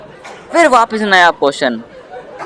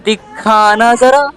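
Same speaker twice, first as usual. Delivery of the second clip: nosy auntie request; 3 semitones higher, much slower than usual. Acted. Neighbor asks to see the broken arm, nosy. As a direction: stretch it out like a curious auntie. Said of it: "ऐसा नया question पूछेगी".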